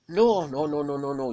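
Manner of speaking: a trapped beast refusing; refusing wolf. Acted. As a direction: Fenrir refuses the gods, high and loud. Fenrir refusing.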